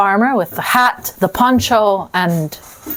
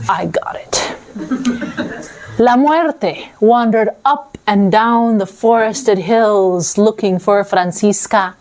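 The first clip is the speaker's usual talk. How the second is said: usual speaking voice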